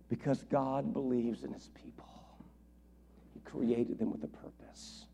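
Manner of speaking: soft whispered close. Acted. Preacher closing the point to the congregation, whispered. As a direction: let it fall to a whisper.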